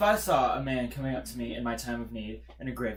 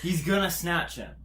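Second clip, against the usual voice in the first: laughing through the words; 3 semitones higher, 4 dB louder than usual. Real, not acted. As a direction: chuckle while saying it. Laughing comment.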